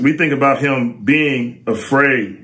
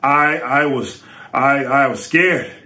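rushed telling. Real, not acted. Excited build to the quote.

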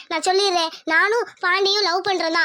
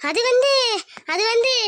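hesitant. Acted. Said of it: "என்ன வந்து போயின்னு இழுக்கிற?".

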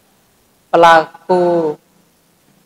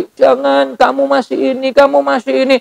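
higher, coaxing devil voice; tempting devil; 4 semitones higher than usual. Retold or imitated. Satan coaxing a giver not to donate, mock tempter. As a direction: whisper doubts like Satan. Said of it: "Dicari tujuh puluh alasan sama setan".

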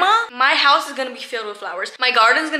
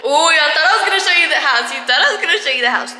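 teasing; 3 semitones higher, 5 dB louder, faster than usual. Real, not acted. Teasing viewers.

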